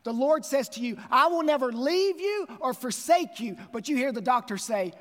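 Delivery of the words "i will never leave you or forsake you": raised high and loud, ringing out; proclaimed promise. Retold or imitated. Pastor proclaiming God's promise to the congregation, loud and high. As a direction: declare the promise with full force.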